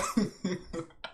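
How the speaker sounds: quiet trailing chuckle; laughing. Real, not acted. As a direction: chuckle to yourself. Cracks himself up after threat.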